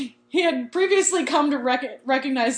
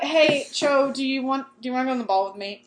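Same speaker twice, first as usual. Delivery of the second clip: acted mumbled rush at the end; nervously rushed; 2 semitones higher than usual. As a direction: blurt the invitation out too fast to follow. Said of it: "What did you say?".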